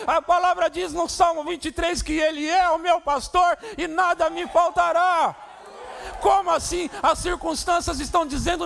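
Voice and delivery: high, loud, shouting sermon; impassioned shouted sermon; fiery preaching. Acted. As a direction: preach it with full force to the church. Preaching at full force.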